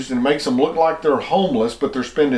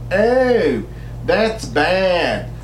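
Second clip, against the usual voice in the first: mocking hippie voice; 3 semitones higher, much slower than usual. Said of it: "the Valley Girl voice or the hippie voice".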